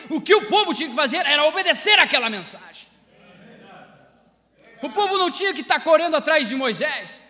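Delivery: high, loud, impassioned pulpit delivery; fervent shouted sermon, pitched high; full-force preaching. Real, not acted. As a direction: preach it hard to the whole congregation.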